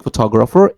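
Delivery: "photographer" as pho-TOG-rapher; shifted stress. Shown as a demonstration. Showing stress in a different place, "photographer" on second syllable. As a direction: put the weight on "tog" in "photographer". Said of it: "stressed in different place".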